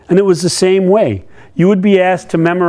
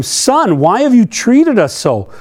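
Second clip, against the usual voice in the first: worried mother; 6 semitones higher than usual. Acted. And his mother said to him.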